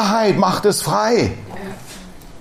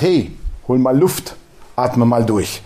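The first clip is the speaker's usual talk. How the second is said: calming inner voice; 7 semitones lower, slower than usual. Retold or imitated. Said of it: "Mein Geist sagt".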